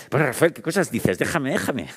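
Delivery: a hint of embarrassed brushing off; flustered boss. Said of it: "se ponía así como un poco azorada". (imitando a la jefa azorada, un poco más aguda)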